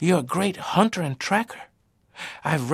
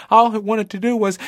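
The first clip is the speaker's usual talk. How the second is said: frightened; 10 semitones higher, 7 dB louder than usual. A narrator's reading. Boy fleeing in terror.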